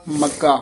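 "ਮੱਗਾ" with a firm double g; tight, doubled g in "ਮੱਗਾ"; tightened magga. Shown as a demonstration. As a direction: press slightly on the g of "ਮੱਗਾ". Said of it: "ਥੋੜ੍ਹਾ ਜਿਹਾ ਕੱਸ ਕੇ ਬੋਲਣਾ ਹੈ".

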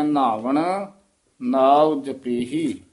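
ਨਾਵਣ said weighty and slow, ਨਾਉ drawn out; heavy ਨਾਵਣ. Shown as a demonstration. Teacher gives the student a heavy ਨਾਵਣ. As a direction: lean heavily on ਨਾਵਣ. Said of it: "ਭਾਰਾ ਉਚਾਰਨ ਕਰਨਾ ਹੈ".

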